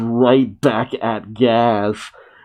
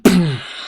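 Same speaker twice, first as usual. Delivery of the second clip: imitated impact whoosh; 5 semitones higher than usual. Imitates the crash into clouds.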